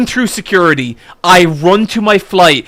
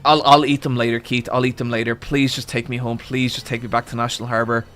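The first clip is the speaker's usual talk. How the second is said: much softer, exhausted begging; weary plea; 7 semitones lower, 8 dB quieter, faster than usual. Retold or imitated. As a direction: plead as if drained of all fight. Desperate plea to the driver.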